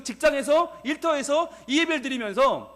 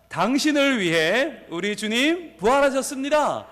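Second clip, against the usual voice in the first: high, slow rallying call; big voice; 4 semitones higher, 3 dB louder than usual. Real, not acted. Pastor leads congregation declaring it to neighbours, calling out. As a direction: proclaim it to the room, stretching the phrases. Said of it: "큰 목소리로".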